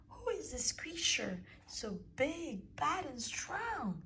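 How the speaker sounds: high, breathless whisper of fright; scared child asking who it is; frightened child. Acted. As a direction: shrink back in fear.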